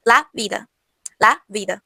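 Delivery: vida with a soft b, lips not quite closing; soft Spanish b. Shown as a demonstration. Teacher showing students the soft fricative b. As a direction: let air slip through the lips on vida. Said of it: "eu tô pronunciando como se fosse o B".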